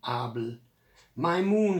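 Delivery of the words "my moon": high, louder storytelling shout. A narrator's reading. Nigel fighting over the returned moon, shout. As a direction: fling the claim out, higher and louder. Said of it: "shouted Nigel".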